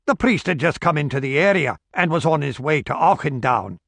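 a hint of a gruff publican spinning a yarn; village barkeep. Barkeep telling Esterhazy about the stranger, lightly voiced.

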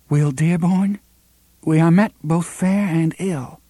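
high, trembling greeting. A narrator's reading. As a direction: let the voice tremble and rise. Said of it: "she said in a trembling voice".

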